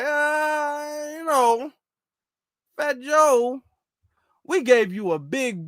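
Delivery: lightly voiced let-down boss, drawn-out opening groan; disappointed boss. Boss reproaching a rapper for failing, mock-disappointed. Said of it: "So she sit up there looking at it like".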